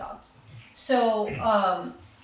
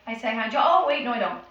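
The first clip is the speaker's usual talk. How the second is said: louder, mock realization; puppy catching herself; 6 dB louder, faster than usual. Voicing the puppy rethinking her habit, louder and mock-startled. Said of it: "she's gonna be like".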